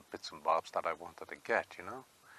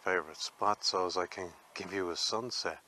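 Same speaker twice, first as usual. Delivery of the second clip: breathless from the climb; out of breath. Real, not acted. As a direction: talk while catching breath. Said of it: "I am a little bit out of breath".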